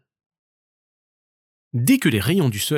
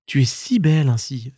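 amazed marmot. Acted. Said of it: "s'émerveilla la marmotte".

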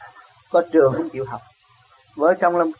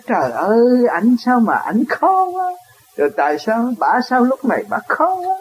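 imitated spousal complaint; 5 semitones higher than usual. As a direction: complain to a friend, stretching the final words. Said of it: "vợ đi thưa chồng mà chồng đi thưa vợ". (giả giọng vợ chồng than phiền, kéo dài cuối câu)

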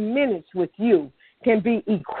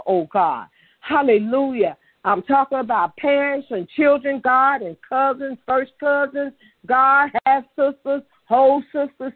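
intercession climbing to a cry; building fervent prayer; 2 semitones higher than usual. Real, not acted. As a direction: pray it back into order, pressing harder. Praying over families, building intensity.

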